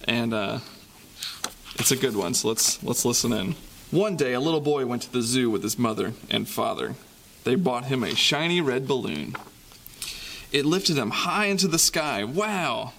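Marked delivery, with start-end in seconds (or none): 3.9-12.9 put-on lively storybook reading for kids; reading to children. A narrator's reading. Reads picture book to kids.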